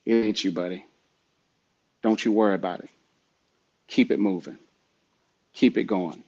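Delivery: steady, lightly voiced calming coach; calm inner voices. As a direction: talk yourself through it calmly, leaving space between phrases. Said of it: "Very calm voices".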